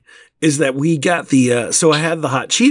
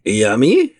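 little son; 3 semitones lower than usual. Retold or imitated. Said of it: "he was like".

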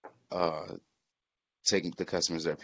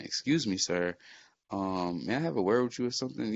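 mock polite request; 4 semitones higher than usual. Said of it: "instead of saying".

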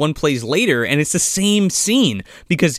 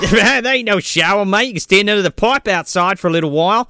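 broad Aussie "mate" voice, a little raised; mock Australian accent; 3 semitones higher than usual. Locals answering a guy who wants a shower, mock Australian accent. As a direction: put on a cheeky Australian accent. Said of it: "And they're like".

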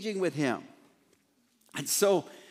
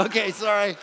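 laughing apology; 3 semitones higher than usual. Real, not acted. Laughing at his own joke.

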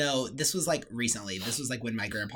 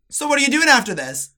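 high, loud mock dentist voice; imitating chatty dad; 12 semitones higher, 12 dB louder than usual. Daughter mimicking her dentist dad, high and loud. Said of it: "he'll be like".

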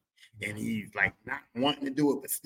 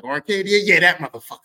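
eager dad; 5 dB louder than usual. Retold or imitated. Dad confirming car.

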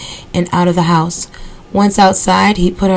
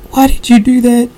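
high, louder hysterical cry; hysterical scream; 6 semitones higher, 3 dB louder than usual. A narrator's reading. Mother seeing Rufus flush the remains, hysterical cry. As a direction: shriek it in disbelief. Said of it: "his mother screamed in hysterics".

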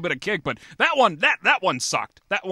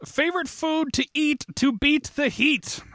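acted question read; 10 semitones higher than usual. Shown as a demonstration. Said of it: "it takes some acting this week".

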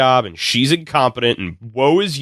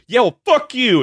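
mock snapping comeback; 9 semitones higher than usual. Character snapping at fired boss.

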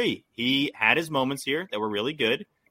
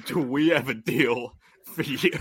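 ad-read pitchman voice. Retold or imitated. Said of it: "Coley with the apple totlets".

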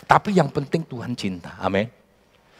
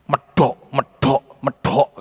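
mocking taunt; slower than usual. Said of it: "kata Saudara".

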